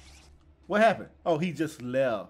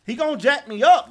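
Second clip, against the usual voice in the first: higher and louder fear; panicky exclaim; 8 semitones higher, 9 dB louder than usual. Real, not acted. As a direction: cry it out in alarm. Waiting with back turned.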